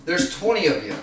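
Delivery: high, loud, heated half-laughing yell; retelling a bar standoff, loud and laughing; yelling at the cop. Retold or imitated. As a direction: shout him down, laughing in disbelief. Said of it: "I'm like".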